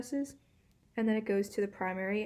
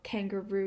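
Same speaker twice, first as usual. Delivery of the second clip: kangaroo with secondary stress on KAN, main stress on ROO; sounded-out stresses. Shown as a demonstration. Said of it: "if you kind of sound out".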